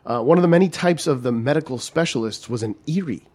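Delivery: holding back a laugh while reading; reading with a giggle breaking through; stifled giggles. Real, not acted. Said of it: "I tried not to laugh when I read this before".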